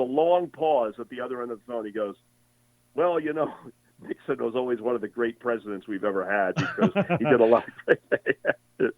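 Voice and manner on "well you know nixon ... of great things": sheepishly back-pedal, laughing at himself; a father who hated Nixon now praising him with a laugh; sudden change of tune. Retold or imitated. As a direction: flip from grumbling to grudging praise, a chuckle breaking through. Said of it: "I like how he changed his tone".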